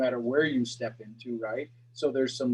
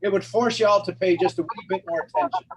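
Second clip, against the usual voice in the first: lilting Irish accent, louder than usual talk; 4 semitones higher, 5 dB louder than usual. Shown as a demonstration. Coach showing how an accent grabs attention, Irish accent. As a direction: put on the family's Irish brogue. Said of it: "I'd be speaking in my family's accent, the Irish accent".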